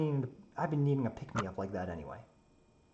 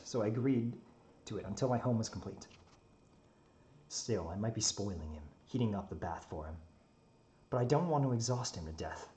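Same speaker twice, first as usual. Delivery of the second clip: in-character story narration. A narrator's reading.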